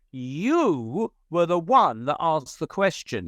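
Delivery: slow, forceful spirit guide in a puppet-bear voice; a touch of Fuzzy Bear, slow and accusing. Retold or imitated. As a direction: lightly put on the bear voice and lean on each word slowly. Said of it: "I was doing the Fuzzy Bear voice".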